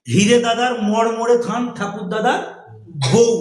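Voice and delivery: poem recitation. Shown as a demonstration. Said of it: "তারপরের লাইনে কি".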